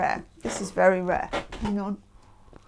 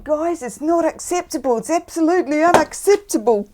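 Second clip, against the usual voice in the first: higher, put-on Australian voice; playful mock-Australian telling-off, pitched up; Australian accent; 7 semitones higher, 4 dB louder than usual. Shown as a demonstration. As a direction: demonstrate a hammed-up Australian accent. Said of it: "say it in an Australian voice".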